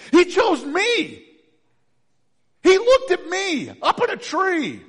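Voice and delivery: slow, loud, high with stress on He; emphatic proclamation. Real, not acted. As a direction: drag out each word in wonder. Emphatic sermon climax.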